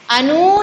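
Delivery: अनु with नु drawn out as long oo; wrong pronunciation. Shown as a demonstration. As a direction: stretch the u of अनु. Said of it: "नहीं है".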